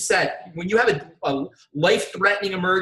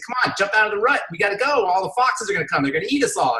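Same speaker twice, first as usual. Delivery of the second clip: mildly urgent, raised-pitch pleading; urgent animals; 4 semitones higher than usual. Retold or imitated. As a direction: voice the worried friends hurrying someone along. Animals urging stuck frog in joke.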